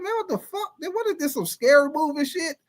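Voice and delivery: high, giggling mock fright; squeaky, laughing horror-movie panic; laughing disbelief. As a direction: laugh through the scared question. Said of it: "I said".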